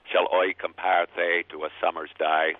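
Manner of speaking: slow, imitated Elizabethan English accent with a touch of Irish and Dorset; lightly done Elizabethan English accent, sounding a little Irish; Shakespearean original pronunciation. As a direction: recite it slowly in reconstructed Elizabethan English. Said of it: "as he would have said it".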